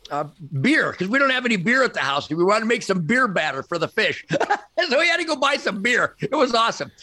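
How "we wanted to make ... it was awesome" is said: amused, laughing through the telling; high-pitched amused chuckle in the words. Real, not acted. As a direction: break into a laugh as you tell it. Amused telling of beer errand.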